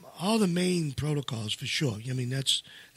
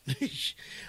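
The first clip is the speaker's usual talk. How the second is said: short, breathy laugh of disbelief; disbelieving laugh; 8 dB quieter than usual. Real, not acted. Speaker recalling harsh treatments he can't believe they did, disbelieving laugh. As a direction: let out a small, soft, incredulous laugh. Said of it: "I'm laughing 'cause".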